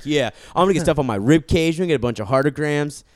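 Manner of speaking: put-on excited kid self. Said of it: "I was like".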